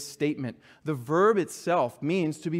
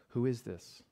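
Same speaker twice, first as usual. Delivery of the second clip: quiet, searching question; hushed question; 6 semitones lower, 8 dB quieter than usual. Shown as a demonstration. Preacher to his congregation, a hushed searching question. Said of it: "That is the question".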